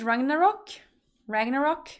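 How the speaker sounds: Ragnarok ending in plain "rock"; questioning RAGNAROK, anglicised; English pronunciation. Shown as a demonstration. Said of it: "How do you say it?".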